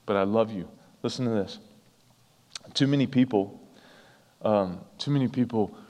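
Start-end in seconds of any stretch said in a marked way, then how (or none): 0.2-0.7 plain, sincere I love you; earnest I love you. Shown as a demonstration. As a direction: say it and mean it. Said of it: "not flippantly said".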